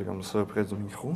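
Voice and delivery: soft, close-mic sensual murmur. Shown as a demonstration. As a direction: lean into the mic, sultry and soft. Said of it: "je vais le faire avec une petite voix sensuelle".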